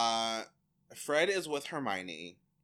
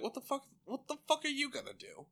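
mock tough biker; 12 semitones higher, faster than usual. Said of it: "the biker's like".

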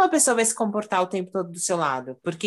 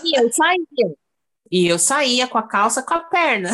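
laughing while telling; 5 semitones higher, 5 dB louder than usual. Real, not acted. Telling funny jeans story.

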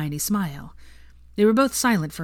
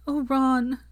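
high, heartfelt cry of his name; emotional cry; 8 semitones higher than usual. A narrator's reading. Hermione springing to her feet to hug Ron, crying out. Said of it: "Hermione cried".

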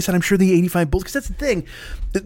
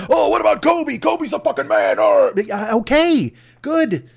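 mock excited fan, much higher; eager fan voice; 9 semitones higher, slower than usual. Fan breaking into the GOAT debate for Kobe, excitedly. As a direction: pipe up like a pushy superfan.

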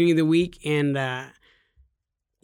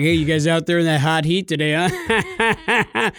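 a hint of a fake folksy greeting; put-on friendly voice; slower than usual. JJ mimics Garrett's affected office voice to customers, lightly. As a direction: lightly imitate a chummy boss putting on a voice. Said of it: "why is he affecting that, that voice".

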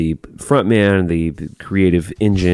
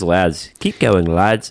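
put-on British accent; much slower than usual. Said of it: "you think he's British?".

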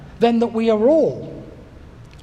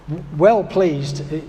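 East London accent; 4 semitones lower than usual. Shown as a demonstration. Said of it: "if you could say it in an East London accent".

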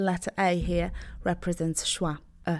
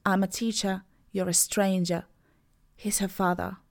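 British English. Shown as a demonstration. Teacher models British pronunciation for learners, no final R. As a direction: drop the final R like a Londoner in "teacher" and "father". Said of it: "So in British, I would say".

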